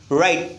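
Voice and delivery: "राइट" begun with the tongue folded back. Shown as a demonstration. Teacher drills write with students, "राइट" with folded-tongue r. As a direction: demonstrate "राइट" with a curled-tongue r. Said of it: "अपनी टंग को fold करिए ऐसे".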